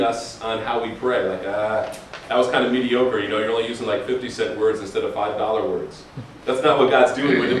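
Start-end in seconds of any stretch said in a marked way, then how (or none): 1.5-6.0 lower, dismissive grader voice; mock God grading. Imagined God scoffing at cheap words, lower. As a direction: sniff at the prayer like a teacher.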